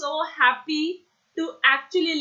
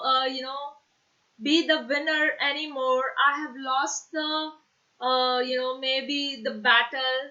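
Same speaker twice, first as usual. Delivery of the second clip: slow, sad storytelling voice; sad tone demo; slower than usual. Shown as a demonstration. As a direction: let the voice sink with sadness, slowly. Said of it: "emotion which is sad, sadness, I am actually showing you that through my tone". (धीमी, उदास आवाज़ में)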